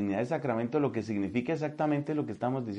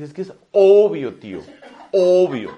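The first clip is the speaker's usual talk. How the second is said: put-on louder, higher teen girl slang; mocking teen girl; 3 semitones higher, 11 dB louder than usual. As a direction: mimic a bored Colombian teenager. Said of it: "lo tienen que decir así". (imitando a una adolescente colombiana, más fuerte y aguda)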